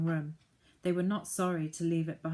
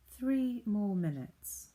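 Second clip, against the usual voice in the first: falsely pleasant; 4 semitones higher, slower than usual. Acted. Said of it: "in the pleasant voice".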